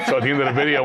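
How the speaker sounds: chuckling through the words; amused, fast and breathy with laughter; laughing. Real, not acted. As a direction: laugh while telling the punchline setup. Laughing at his own prank.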